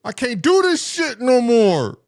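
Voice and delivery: high, strained cry of frustration; frustrated outburst. Retold or imitated. Kid breaking down at the teacher, high and strained. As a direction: wail it out high, at the end of your rope. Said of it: "My boy said he got frustrated".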